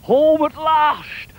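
high, drawn-out cheer into a whee; Jack's gleeful shout. Acted. Jack sliding home at last, high gleeful whooping. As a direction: whoop as you slide away. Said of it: "says Jack".

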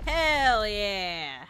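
loud, drawn-out cheer; triumphant cheer. Real, not acted. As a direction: let it fall slowly from a loud start. Cheering own success in game.

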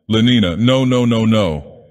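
a tormented plea against his desire; desperate refusal. Acted. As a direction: push the thought away, slowing down. Savage resists the vision.

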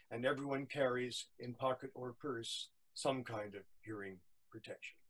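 rhyming verse, easing to a close; poem recitation. A narrator's reading.

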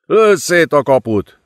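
high, forceful roared command; roaring order. A narrator's reading. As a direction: yell it through the chaos. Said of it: "ordította a fiatal időmérnök". (ordítva kiadott parancs)

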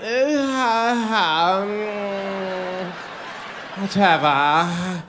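mock posh scoffing laugh then a slow "whatever"; arrogant dismissal. Husband mocking his English wife's arrogant tone. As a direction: imitate the wife's condescending brush-off. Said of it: "that arrogant".

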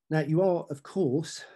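ordinary talk

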